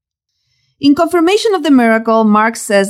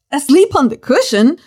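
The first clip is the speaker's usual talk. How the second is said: higher, incredulous echo of the verse; mock disbelief; 3 semitones higher than usual. Preacher mocking the sleeping Jesus in disbelief. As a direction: repeat it as if you can't believe it.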